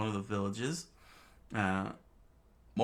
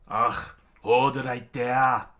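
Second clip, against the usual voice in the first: slow, booming raised voice; loud challenge; 5 semitones higher, 10 dB louder, slower than usual. Acted. Guardsman interrupting the king's march, loud challenge. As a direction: call out to stop him. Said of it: "a loud voice, uh, was heard".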